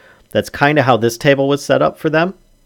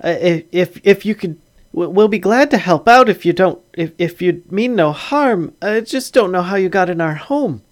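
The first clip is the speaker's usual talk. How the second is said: higher-pitched, stammering halfling host; hesitant halfling father, polite; 8 semitones higher than usual. Acted. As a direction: offer help haltingly in a high, uneasy voice.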